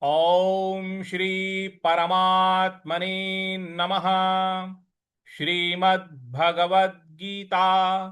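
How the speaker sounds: slow chanted Sanskrit, ओम and परमात्मने held long; slow recitation. Shown as a demonstration. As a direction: chant the full heading slowly. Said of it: "एक बार और बोलते हैं".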